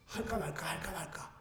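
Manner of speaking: hushed, very low self-talk; barely audible, weighing it up; hesitant inner murmur. Acted. Thief debating with himself whether to do it, hesitant murmur. Voicing hesitation before stealing.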